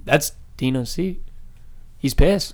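mock serious, level and calm; lightly voiced deadpan friend. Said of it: "so calm, so serious".

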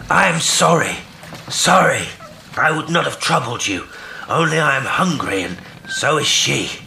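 high, halting, plaintive call; hopeless and pathetic. A narrator's reading. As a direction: call despairingly from a distance, dying away. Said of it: "sounding extremely hopeless and pathetic".

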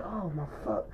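very quiet, low retold disbelief; stunned aside. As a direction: act out the friend under his breath, appalled. Retells friend's stunned muttered reaction.

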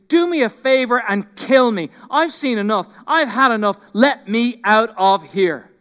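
preacher voicing Moses ranting at God in frustration; Moses' exasperated rant. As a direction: read it as a worn-out man who's had enough. Moses ranting at God, read aloud.

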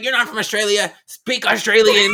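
mock-indignant challenge, drawn out at the end; mom demanding. Friend quoting a mom challenging a man's Australian claim, loud demand. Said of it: "then she was like".

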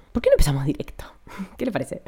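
breathy teasing whisper; playful whisper. Pretend. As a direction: whisper it like a secret.

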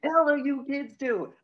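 booming mock lecture to kids; mock rock-singer speech. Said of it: "And he's like".

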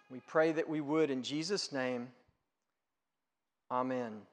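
hushed, earnest prayer voice. Acted. Pastor praying over the congregation, hushed and earnest.

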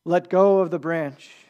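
slow, weighty command from above, lightly voiced; booming God. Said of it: "boomed the voice".

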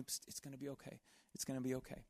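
hushed motherly it's gonna be okay; hushed comfort. Retold or imitated. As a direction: soothe a heartbroken child quietly. Mom comforting after breakup.

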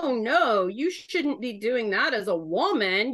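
exaggerated sing-song finger-wagging; mock scolding. Southern woman quoting her disapproving church, mock scolding. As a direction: mildly mimic a disapproving church voice.

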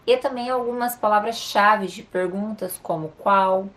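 normal talking voice

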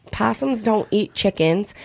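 slow, flat correction; deadpan kids. Retold or imitated. Her kids correcting her about possums, slow and deadpan. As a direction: calmly set her straight. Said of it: "And they're like".

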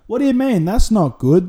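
sharp, high "what do you mean"; indignant disbelief. Retold or imitated. Replying to girlfriend about the movie, outraged disbelief. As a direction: act baffled that anyone would cheer the escape.

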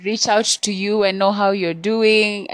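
high and loud, overly sweet; caller lady voice. Retold or imitated. Imitating the woman caller's sugary high explanation. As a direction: mimic her fake friendly pitch. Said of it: "And then she's like".

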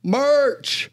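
high excited echo of the word; hyped echo. Acted. Host echoing co-host's merch reveal, hyped.

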